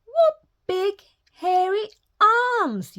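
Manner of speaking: put-on girl asking cautiously; said carefully. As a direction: pick each word carefully. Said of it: "Little Red said carefully".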